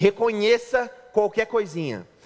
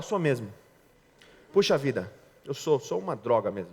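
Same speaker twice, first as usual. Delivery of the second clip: lower, softer self-pitying voice; mope, sound crushed; beaten-down husband; 7 semitones lower, 3 dB quieter than usual. Retold or imitated. Husband agrees he is worthless, low and crushed. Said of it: "O homem fala".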